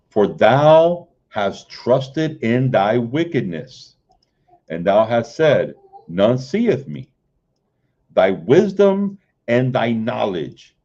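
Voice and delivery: measured King James recitation; scripture reading. Acted. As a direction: read the verses like a preacher from the pulpit. Reads Isaiah aloud.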